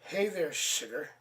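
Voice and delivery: a lightly voiced charming rogue drawl; mild flirty drawl. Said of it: "he drawled".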